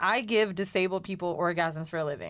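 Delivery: plain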